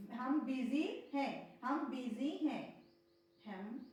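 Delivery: very slow, careful repeat; slow repetition. Shown as a demonstration. Teacher drilling a phrase for students, very slow. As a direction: drill it slowly twice for the class. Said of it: "बिजी पढ़ना".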